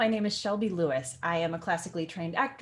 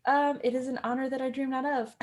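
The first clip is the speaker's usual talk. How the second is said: higher, hesitant polite reply; mock-dutiful daughter; awkward Juliet; 5 semitones higher than usual. Voices Juliet answering her mother.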